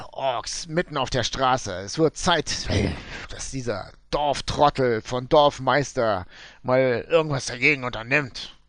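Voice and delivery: gold prospector. Acted.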